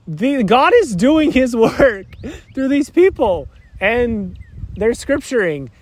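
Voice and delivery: slow, high gushing awe with a laugh in it; awed gushing. Retold or imitated. Imitating his own reaction to a video, slow awed gushing. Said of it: "So I watch one of those things like".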